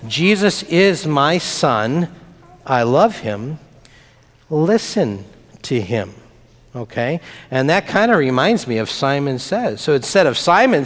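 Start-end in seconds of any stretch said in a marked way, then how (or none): 0.1-6.1 voice of God. Acted. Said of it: "And God's voice said".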